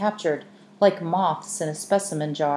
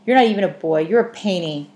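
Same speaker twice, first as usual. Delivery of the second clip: put-on girl keeps yelling after the boy, furious; 2 semitones higher, 6 dB louder than usual. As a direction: hurl it after him at full voice. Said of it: "she yelled after him".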